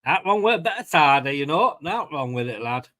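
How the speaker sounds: light mock Yorkshire accent; a touch of Yorkshire, toasting with cider. Opening the cider with mates, a light put-on Yorkshire accent. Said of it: "What am I doing a Yorkshire accent".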